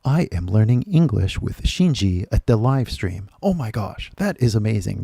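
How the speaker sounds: over-careful, word-by-word textbook reading; textbook English. Acted. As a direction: mimic a stilted English textbook dialogue. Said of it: "You have the textbook and".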